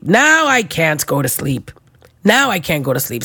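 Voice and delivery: slow, dragged complaint; slow lament. Shown as a demonstration. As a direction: stretch it out in weary dismay. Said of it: "repeated lament".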